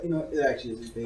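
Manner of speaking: telenovela reveal. Retold or imitated. Mock telenovela twist line.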